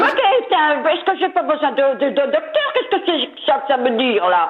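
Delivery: flustered indignation. Real, not acted. Flustered customer protests.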